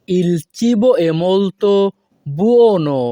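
slow, careful Italian; slow model phrase. Shown as a demonstration. Teacher modelling the Italian slowly for students. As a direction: draw it out for learners. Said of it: "model then broken".

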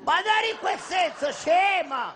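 exasperated shout. Acted. Rimprovera l'amica.

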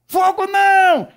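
high, long-held shriek; very loud, high, stretched cry; possessed woman's scream. Retold or imitated. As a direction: shriek back as the demon in her. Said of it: "quando ela respondeu".

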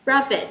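Profit with the final t clearly released; final consonant sounded. Shown as a demonstration. Teacher models Profit for learners, final t clearly released. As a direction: pop the last t of Profit. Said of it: "nhớ là bật cái âm đuôi ra".

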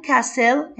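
"castle" without the t, as "kassel"; silent T. Shown as a demonstration. Teacher modelling the word for pupils, "castle" with silent t. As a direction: drop the t in "castle", slow and loud. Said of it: "هنا التي مش هنطقها حبايبي".

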